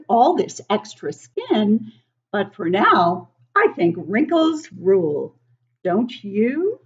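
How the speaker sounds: a hint of a wrinkly baby proud of its skin; baby aardvark voice. Reading to children as Amani the aardvark, lightly voiced.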